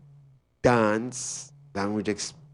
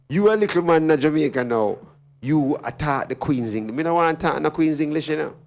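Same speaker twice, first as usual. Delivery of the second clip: higher-pitched, mocking disbelief; incredulous scorn; 7 semitones higher, 3 dB louder than usual. Real, not acted. Speaker ridiculing a little man's claim to Queen's English, incredulous scorn. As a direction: scoff at the pretension, pitched up.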